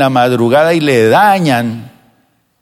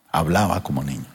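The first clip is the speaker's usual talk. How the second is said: soft echo; 8 semitones lower, 9 dB quieter than usual. Acted.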